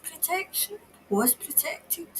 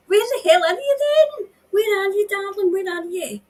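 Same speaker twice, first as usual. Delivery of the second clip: much higher, louder calling; frantic searching call; 8 semitones higher, 5 dB louder than usual. Acted. Medium calls for missing woman.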